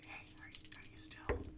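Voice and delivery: breathy unvoiced stage whisper. Player whispering to a hidden companion, stage whisper. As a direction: hush it so only the nearby hear. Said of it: "Stage whisper".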